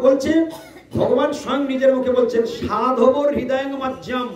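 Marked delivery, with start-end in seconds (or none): 2.6-4.3 slow chanted Sanskrit verse; measured scripture chant; slow recitation. Shown as a demonstration. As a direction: intone the verse slowly. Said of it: "সবাই বলবেন আমার সঙ্গে".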